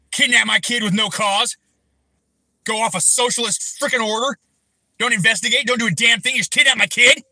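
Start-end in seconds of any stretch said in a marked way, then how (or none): 5.0-7.2 raised furious voice; angry. Real, not acted. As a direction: hurl it at him, rising. Furious rant at officials.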